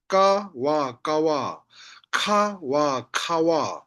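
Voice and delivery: "ka", "wa" apart, then joined "kawa"; two syllables. Shown as a demonstration. Teacher demonstrates for learners, split then blended "kawa". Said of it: "When I say kawa, two syllable".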